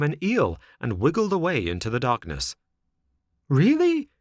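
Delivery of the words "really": high, loud puppet outburst; enraged cry. A narrator's reading. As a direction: cry out in indignant disbelief. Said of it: "cried Pinocchio, blind with rage".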